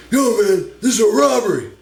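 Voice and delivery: loud, high yelling mugger; robber. Retold or imitated. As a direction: bark it like a panicked mugger.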